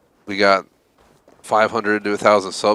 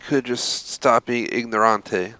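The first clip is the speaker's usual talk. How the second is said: Italian word; 3 semitones higher, slower than usual. Retold or imitated. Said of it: "As Ezio Auditore would have said".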